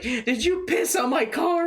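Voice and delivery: high-pitched wailed question; squeaky upset whine; mock tearful accusation. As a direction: imitate a distraught drunk woman accusing. Crying owner confronts the buddy.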